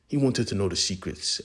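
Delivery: usual speaking voice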